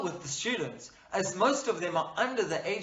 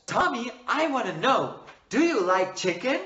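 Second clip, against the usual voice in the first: rapid-fire question to a pupil; too fast; 4 semitones higher, 5 dB louder than usual. Shown as a demonstration. Teacher showing pupils how not to speak, too fast. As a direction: rattle the question off quickly. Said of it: "Do not speak fast".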